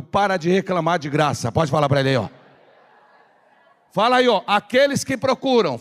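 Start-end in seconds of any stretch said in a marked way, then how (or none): 0.0-1.5 bem alto. Shown as a demonstration. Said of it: "fala bem alto". 4.5-5.8 raised-voice prompt to the congregation; bem alto. Shown as a demonstration. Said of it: "Fala bem alto".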